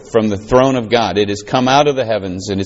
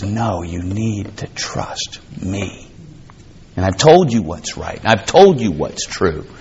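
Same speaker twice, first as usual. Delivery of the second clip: a lightly lowered, hushed God voice; 3 semitones lower, slower than usual. Pretend. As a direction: speak gently as God reassuring. Voicing God in sermon.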